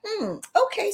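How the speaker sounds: high, rising sarcastic okay; unimpressed. Real, not acted. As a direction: brush it off, unconvinced. Reacting to the cutbacks talk.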